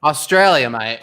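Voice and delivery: a hint of put-on Australian accent; lightly imitated Australian twang; mock Australian accent. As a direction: playfully try an Australian accent. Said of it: "wanna hear that Australian accent".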